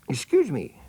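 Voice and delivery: high, polite little voice; polite elephant's child. Acted. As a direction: ask sweetly like a well-mannered child. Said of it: "said the elephant's child most politely".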